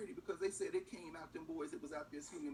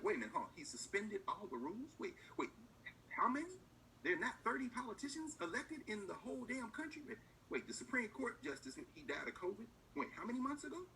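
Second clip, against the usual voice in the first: higher-pitched, disbelieving questions; incredulous reaction; 4 semitones higher than usual. Acted. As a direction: play officials caught off guard by the news. Acts officials stunned by news.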